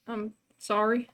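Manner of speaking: soft, slow, hesitant sorry; meek apology. Acted. Bonnie was just yelled at, small apology. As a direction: apologise quietly after being yelled at. Stunned child apologises after yell.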